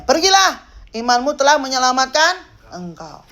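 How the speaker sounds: loud, high opening, then easing; proclaimed command. Acted. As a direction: call out the first word, then proclaim. Acts Jesus' reply. (perintah lantang penuh wibawa)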